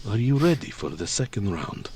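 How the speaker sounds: low taunt before the round; lightly voiced giant challenge; challenging giant. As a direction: square up to her. Jorn challenges again.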